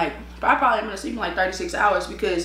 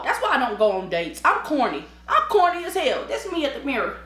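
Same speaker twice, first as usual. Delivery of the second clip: normal talking voice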